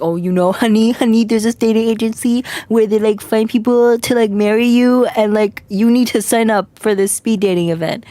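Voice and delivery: lightly voiced coaxing mother; imitated mom. Streamer retells mom pitching a dating agency, coaxing. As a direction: imitate a mom pushing her plan on you.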